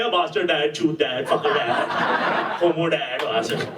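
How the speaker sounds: lightly voiced swearing child; rude kid. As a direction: fire off insults like a bratty boy. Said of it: "his son is like".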